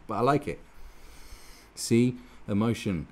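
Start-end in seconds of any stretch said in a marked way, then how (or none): 0.1-0.6 happy crowd member. Retold or imitated. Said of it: "they're going".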